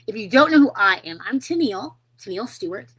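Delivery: usual speaking voice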